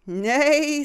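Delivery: high, loud whinny; horse neigh. A narrator's reading. Reading aloud, the horse neighs. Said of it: "said a horse".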